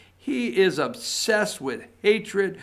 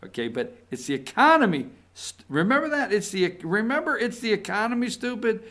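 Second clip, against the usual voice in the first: Carville impression; 4 semitones higher, faster than usual. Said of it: "I love to try to do James Carville".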